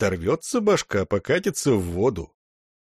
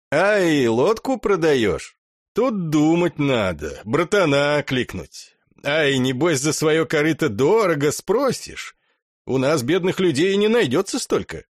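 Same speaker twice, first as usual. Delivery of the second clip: mocking; 4 semitones higher than usual. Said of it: "дубинщик издевался".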